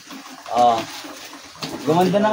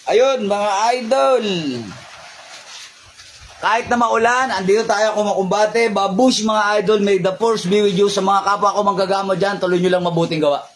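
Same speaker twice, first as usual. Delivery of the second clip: upbeat sign-off; 4 semitones higher than usual. Real, not acted. Vlogger signing off to his followers, cheery outro. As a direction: wave goodbye to the viewers with energy.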